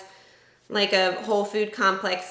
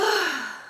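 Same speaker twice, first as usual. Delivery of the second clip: heavy sigh; 7 semitones higher than usual. Real, not acted. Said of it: "I can't breathe".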